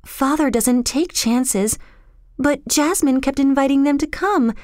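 put-on high, tearful girl; acted weeping, climbing in pitch; crying heavily. A narrator's reading. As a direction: lament it in a high, upset voice. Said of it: "She was crying heavily".

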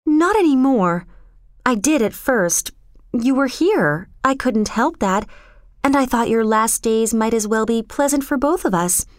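put-on mildly impassioned girl's confession; passionate protest. A narrator's reading. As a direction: plead and explain, faltering midway. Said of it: "she protested passionately".

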